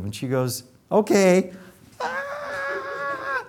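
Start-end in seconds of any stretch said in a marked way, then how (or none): 0.9-1.5 chirpy okay. Retold or imitated. Patient agreeing before scream. 2.0-3.4 high piercing imitated scream; a retold scream, acted high and piercing; mock scream. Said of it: "So she screamed".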